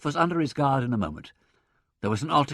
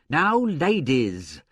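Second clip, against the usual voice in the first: slow, louder appeal for order; protesting; 4 semitones higher, 5 dB louder, much slower than usual. A narrator's reading. Secretary to surging applicants, protesting. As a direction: hold back the crowd in protest. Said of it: "protested the secretary".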